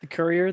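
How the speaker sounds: "Courier" with an "ur" first vowel, questioning rise; trying a pronunciation. Shown as a demonstration. Host testing how to pronounce the film title, "Courier" as KUR-ee-er. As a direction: try "Courier" as KUR-ee-er, unsure. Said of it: "is that how you pronounce it?".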